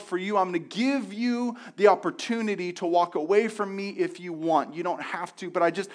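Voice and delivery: God speaking to humanity about the tree. Retold or imitated. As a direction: speak as a generous God warning. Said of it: "And God said".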